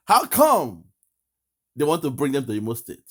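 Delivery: ape the caller's question again, mocking; mock incredulous. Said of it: "He's asking".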